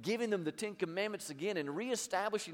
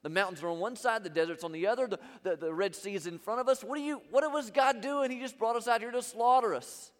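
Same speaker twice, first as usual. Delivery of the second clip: mock outcry of a panicked crowd, building louder and higher; crying out in complaint; 3 semitones higher, 4 dB louder than usual. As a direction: imitate grumbling people crying out, rising to a loud finish. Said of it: "they're crying out".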